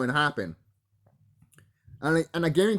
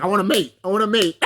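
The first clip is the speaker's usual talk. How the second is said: voicing cobra king; 4 semitones higher, 5 dB louder, faster than usual.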